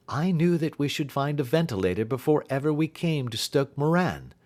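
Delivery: confident detective reassuring a frightened client; detective's voice. Acted.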